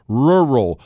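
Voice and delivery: Rural said slowly, each sound drawn out; slow careful word. Shown as a demonstration. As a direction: ease through Rural carefully, like a tongue twister. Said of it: "I have to say it extra slow".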